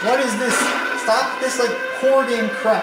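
panicked pleading at the screen; scared horror game streamer. Real, not acted. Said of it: "You're scaring me".

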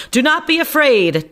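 squeaky showman. Acted. Reassuring crowd.

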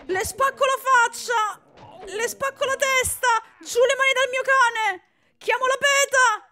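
loud, high screaming threats; furious rant. Acted. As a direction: scream threats to defend the dog. (minacce urlate furiose)

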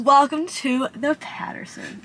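slow, lightly British welcome; a hint of a posh British host; wife welcoming viewers, in a light British accent. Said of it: "in a British accent".

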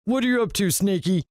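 high singsong character voice; villain addressing his pet. A narrator's reading. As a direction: ask it high and lilting, as to a pet. Villain coos to his pet snake.

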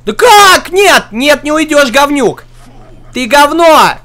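high angry shouting; angry yelling. Real, not acted. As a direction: yell at the escaping enemy. Enemy escapes, player rages.

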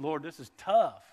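loud strained cry to the Lord; a hammed-up loud lament; anguished cry. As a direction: cry out to God under strain.

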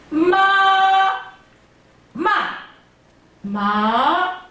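마 through all four tones in turn; 마 in first to fourth tone. Shown as a demonstration. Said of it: "정성은 어떻게 한다고요".

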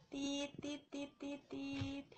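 soft, even string of beeps; beeping noise. Pretend. Streamer playing with viewers, imitating beeps. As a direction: repeat "tit" like a little beeper.

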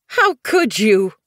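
sudden high, loud outcry of disbelief; bursting out. A narrator's reading. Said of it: "Poppy Dawn burst out".

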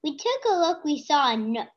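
audible, steady reading voice. Real, not acted. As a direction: clear read-aloud, voice held up to the end. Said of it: "Talk loud, talk loud, so you can hear".

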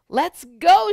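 loud, high call to come and play; eager playful shout; excited shout. Acted. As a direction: shout it out to a friend, full of fun. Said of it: "shouted Boz".

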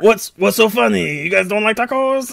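put-on offended Hispanic vendor accent. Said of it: "doing a Hispanic accent".

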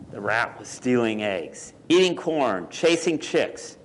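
measured picture-book narration with lingering key words; story read to children. A narrator's reading. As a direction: read it to small children, pausing between phrases.

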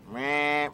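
a little bleating meh like a toy doll; doll sound. Retold or imitated. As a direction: mimic the doll's squeak, lightly. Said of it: "It makes a sound like".

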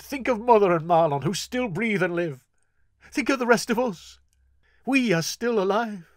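desperate pleading. Acted. Horion begging his sister to live, desperate pleading. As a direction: swear and plead with rising urgency.

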